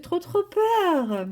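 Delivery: a hammed-up little shiver of fear; mock fright. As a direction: play at being spooked. Saying the drawing scares her.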